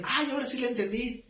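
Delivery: lightly acted dawning understanding; sudden realization. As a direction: voice an imagined listener who finally gets it.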